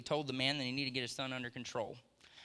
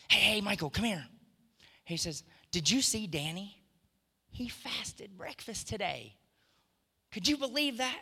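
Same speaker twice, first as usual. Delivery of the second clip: excited God; 7 semitones higher than usual. Retold or imitated. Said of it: "he's all excited about it".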